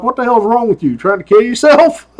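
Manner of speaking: a hint of trooper scolding the rider; retold scolding. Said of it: "I'm like".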